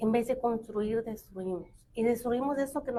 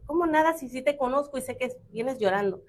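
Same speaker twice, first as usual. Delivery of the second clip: questioning sister; 3 semitones higher than usual. Retold or imitated. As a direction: ask like a sister who knows something's up. Sister insists.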